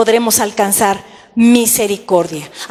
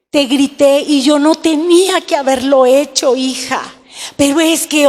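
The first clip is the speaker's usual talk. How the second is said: disculpa con reproche. Shown as a demonstration. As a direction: start sorry, then push the blame back. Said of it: "Eso no es pedir perdón". (disculpa que se vuelve regaño, un poco más fuerte)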